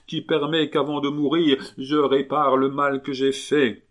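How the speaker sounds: aigu et fort, qui retombe peu à peu; supplication criée. A narrator's reading. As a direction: implorer à pleine voix. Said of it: "de toute la force de sa voix". (le mourant supplie le moine de rester, criant)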